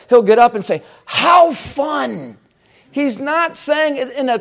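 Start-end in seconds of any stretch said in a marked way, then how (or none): 1.0-2.4 a hammed-up excited cry of how fun; excited exclamation. Quoting the excited pastor, an excited shout. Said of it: "Pastor Mitchell gets kind of excited".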